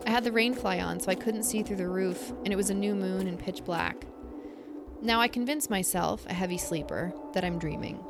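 measured spooky campfire storytelling; story narration. A narrator's reading. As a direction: read the eerie story aloud, letting pauses hang. Reads a listener story aloud.

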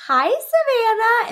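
high, bright drawn-out hello; good-news greeting. Retold or imitated. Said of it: "it was the tone of her voice".

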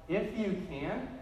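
slow echo with a rising end; drawn-out, mildly incredulous repeat; questioning echo. Retold or imitated. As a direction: hand the words back as a question. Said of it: "As if to say".

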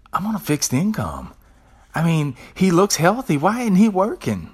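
mock the outraged old lady; old lady complaining. Old lady griping to the speaker about the beggar, climbing indignant voice. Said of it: "she turns to me and she says".

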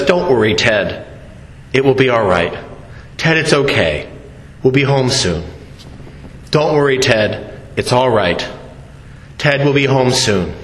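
put-on father keeping calm while his kid melts down; calm and collected. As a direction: soothe yourself with calm low words. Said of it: "appears to be very calm and collected".

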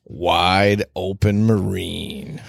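slow drawn-out announcer read. Pretend. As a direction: stretch out the brand name like an ad. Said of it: "get into our announcer voices".

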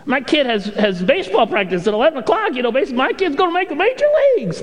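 mock excuses, rising toward a high sarcastic finish; lightly hammed-up excuse-maker. Excuse-making churchgoer listing reasons to skip, sarcastic mock tone. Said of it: "There was a little sarcasm in that".

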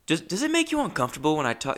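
put-on quick, half-hearted go at an Australian accent. Gym acquaintance David asks a question, in a shaky Australian accent. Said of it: "I can't do the Australian accent".

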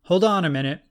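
called out from behind a closed door; muffled call. Acted. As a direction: raise the voice through the door, muffled. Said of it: "A muffled voice called out".

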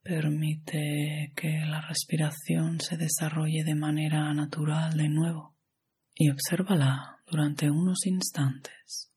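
calm, even meditation guide with long pauses; measured yoga nidra instruction, phrase by phrase; guided meditation. Acted.

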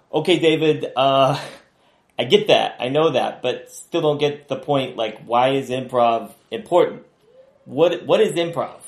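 impatient cabbie who still doesn't get it; Jimmy voice. Acted. Jimmy pushing back on Dave.

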